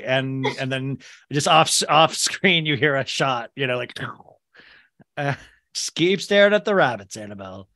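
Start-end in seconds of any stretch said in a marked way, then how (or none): 5.2-7.7 placating caretaker. Acted. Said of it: "your caretaker will be like".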